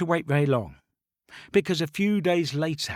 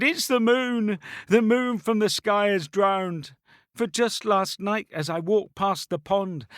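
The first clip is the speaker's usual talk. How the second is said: put-on sad girl voice; 5 semitones higher than usual. Girl tells the herald the moon drowned, high sad voice. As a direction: play a tearful little girl mourning the moon.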